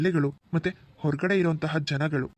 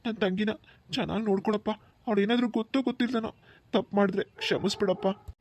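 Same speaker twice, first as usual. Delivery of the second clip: tearful plea; 3 semitones higher than usual. Acted. Brother asking groom to look after his sister, tearful. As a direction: plead through tears for her care. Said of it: "ಕಣ್ಣೀರ್ ಹಾಕ್ಬೇಡಿ ಭವ".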